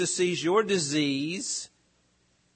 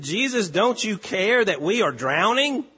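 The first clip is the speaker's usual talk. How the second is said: higher, pleading cry for help; urgent plea; 4 semitones higher than usual. Acted. Disciples waking the sleeping Jesus in the storm, urgent higher plea. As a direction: beg him to wake up before the boat sinks.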